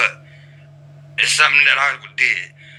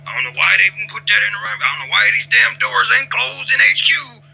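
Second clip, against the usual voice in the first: higher, rising to a mock shout of complaint; cranky complaining; 5 semitones higher than usual. Imitating himself nagging the crew, building to a yell. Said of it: "I could be that D F G".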